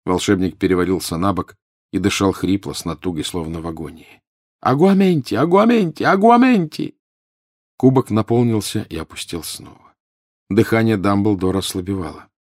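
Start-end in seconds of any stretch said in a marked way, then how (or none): 4.6-7.0 high, raised, repeated spell cries; desperate urgent spellcasting; frantic incantation. A narrator's reading. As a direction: shout it over and over, climbing. Spell repeated as professor is dying.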